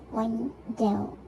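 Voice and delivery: "window" split into two beats; syllable by syllable. Shown as a demonstration. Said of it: "two syllables".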